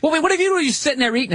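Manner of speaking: mock dog talking back; dog's voice. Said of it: "And the dog's like".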